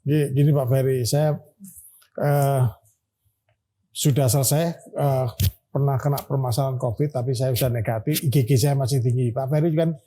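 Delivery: muffled behind a face mask; speaking through a mask. Real, not acted. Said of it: "saya boleh lepas masker nih".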